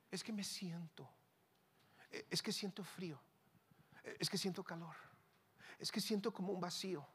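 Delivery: soft, halting mock complaint; mock self-pity. Preacher mimicking people ruled by feelings, meekly self-pitying. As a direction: imitate someone quietly dwelling on every feeling.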